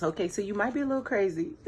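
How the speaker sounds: talking through laughter; giggling as she says it; laughing. Real, not acted. Laughing while teasing reader.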